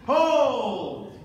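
loud, sharp call to stop; shouted command. Real, not acted. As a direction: bark the halt across the floor. Referee halting fencers.

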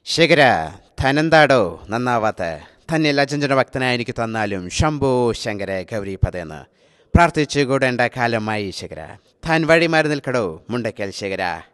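lightly voiced Mohanlal, low and slow; a touch of Lalettan's swagger, slowed down; hint of a heroic film dialogue delivery. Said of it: "ലാലേട്ടൻ്റെ ചെറിയൊരു കിടിലൻ dialogue".

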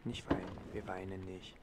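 soothing. Acted. Comforting a crying baby.

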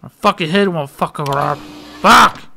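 garbled angry cursing, bursting out on the last word; tongue-tied anger. Real, not acted. Gamer too angry at a puzzle to talk, real tongue-tied rage. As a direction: trip over the words, then explode on "fuck". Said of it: "Can't even talk. I'm so fucking angry".

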